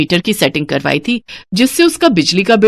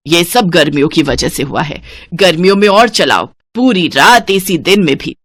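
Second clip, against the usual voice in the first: mildly irate mother-in-law blaming the household; sarcastic scolding over wasted electricity; cross, emphatic telling-off; angry; 2 semitones lower than usual. Acted. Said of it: "इतनी गुस्से में क्यों हो".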